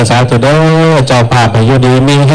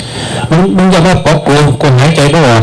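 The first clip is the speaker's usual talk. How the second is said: 1 ghost in a man's voice; 3 semitones higher, slower than usual. Retold or imitated. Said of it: "เป็นเสียงผู้ชาย".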